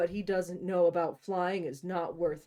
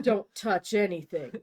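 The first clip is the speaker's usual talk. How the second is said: stern command; 5 dB louder than usual. Acted. Grey commanding her.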